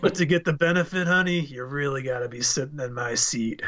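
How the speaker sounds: a lightly voiced movie villain, dropping to a whisper at the end; movie villain quote. Retelling the Death Proof line to his co-host, mildly voiced then whispered. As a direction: quote the killer, sinking to a hushed whisper on the last line.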